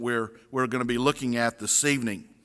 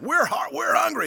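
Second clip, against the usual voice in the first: put-on high, whining child voice; whiny kids; 12 semitones higher than usual. Kids complaining to mom, high whine. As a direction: whine like a hungry little kid. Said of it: "the kids are like".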